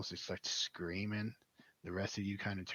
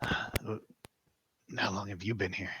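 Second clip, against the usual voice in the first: slow gravelly prisoner; 6 dB louder, much slower than usual. Acted. Voiced prisoner NPC asks.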